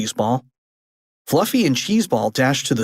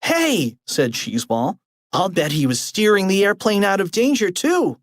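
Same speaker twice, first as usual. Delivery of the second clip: put-on high kid voice; 6 semitones higher than usual. Character realizes.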